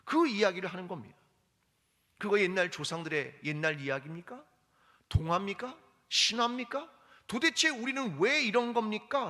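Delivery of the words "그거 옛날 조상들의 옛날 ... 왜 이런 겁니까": complaining. Retold or imitated. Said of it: "라고 말한다는 겁니다".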